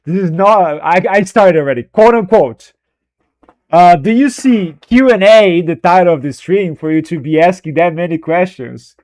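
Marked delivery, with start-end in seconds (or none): 3.7-8.9 mock-sarcastic jab at the chat; lightly sarcastic, quoting yourself; a touch of sarcasm. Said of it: "I'm gonna be sarcastic now".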